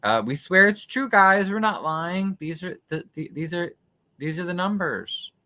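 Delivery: high-pitched mocking voice, softening as it goes; mock board members. Host parodying the board vouching for its numbers, mock-earnest. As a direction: imitate officials protesting their honesty, pitched well up. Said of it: "it's just saying, you know, "Yeah, we, the board".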